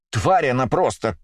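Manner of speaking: sudden angry burst, drawn out; explosive outburst. A narrator's reading. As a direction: spit out the insult in fury. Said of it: "Вдруг взорвалась та". (вспышка злости)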